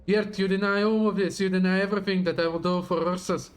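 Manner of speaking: dramatic villain reading; grand, menacing speech to an enemy; villain monologue. Acted.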